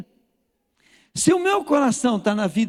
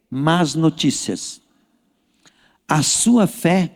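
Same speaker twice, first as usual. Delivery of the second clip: call and repeat; 5 semitones lower, much slower than usual. Shown as a demonstration. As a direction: spell it out for the crowd to echo. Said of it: "Agora diga comigo assim".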